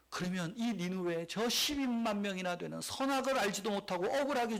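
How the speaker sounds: God gently scolding a sulking prophet, with a smile; God chuckling. Retold or imitated. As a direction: tease Jonah like an amused father. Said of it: "하나님이 웃으시면서 하는 말씀".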